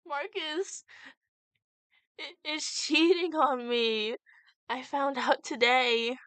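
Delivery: shaky voice. Acted. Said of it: "spoke with a shaky voice".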